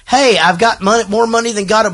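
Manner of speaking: imitated movie character. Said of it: "she's just like".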